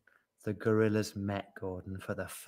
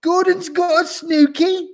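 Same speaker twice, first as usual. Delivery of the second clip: high, loud barked query; barking seal; 10 dB louder than usual. A narrator's reading. Seal passes gossip to the yak, barking. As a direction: bark it like a seal. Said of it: "barked the seal".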